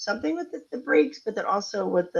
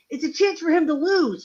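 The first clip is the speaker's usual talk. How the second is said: put-on high, worked-up, freaking-out screaming; 9 semitones higher than usual. Retelling answering a partner's question mid-race: imitating own screaming. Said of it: "I'm screaming".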